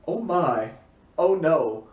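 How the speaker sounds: lightly imitated British talking dog; mild British-accented dismay. Old British talking dog reacts to events, British accent. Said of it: "in this British accent, he just goes".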